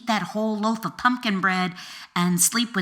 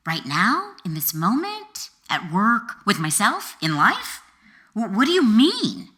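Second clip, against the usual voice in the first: tripping over questions, rising, louder; flustered stammering; 2 semitones higher, 4 dB louder than usual. Retold or imitated. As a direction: fumble for words, getting flustered. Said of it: "I'd stammer".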